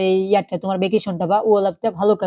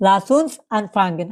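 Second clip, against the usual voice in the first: slow German demo; much slower than usual. Shown as a demonstration. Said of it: "এটা কি বলে?".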